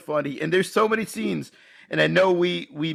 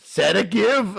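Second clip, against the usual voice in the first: quizzical movie quote with rising lift; questioning quote; 4 semitones higher, slower than usual. Shown as a demonstration. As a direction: ask it like a puzzled doctor. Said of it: "the one scene that fits the mold".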